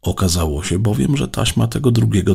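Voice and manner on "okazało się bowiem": plain reading voice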